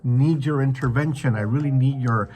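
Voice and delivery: crying out to God. Acted. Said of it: "when we cry out to him and we say".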